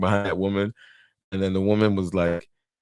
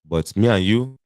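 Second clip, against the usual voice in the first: put-on reassuring suitor with an African accent; put-on African husband's accent. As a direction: excuse yourself in a mock African accent. Playing the married African suitor.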